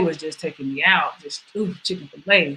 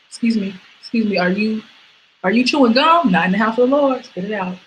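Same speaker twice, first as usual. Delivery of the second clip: lightly played stern usher; 3 semitones higher than usual. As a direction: scold the gum chewer in church.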